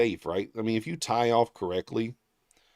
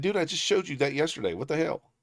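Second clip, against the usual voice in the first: mild exasperation; 6 semitones higher than usual. Retold or imitated. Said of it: "I'm gonna be pissed".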